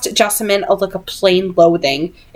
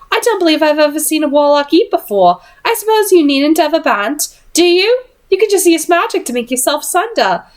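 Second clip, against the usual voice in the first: put-on higher, fast, airily dismissive young lady; airy Jessamine; 7 semitones higher than usual. Jessamine teasing Tessa at dinner, airy and high. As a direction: toss it off lightly, looking down on her. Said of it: "Jessamine said airily".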